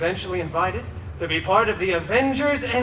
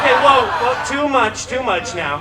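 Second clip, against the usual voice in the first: laughing protest; 4 dB louder than usual. Real, not acted. Audience laughs too much.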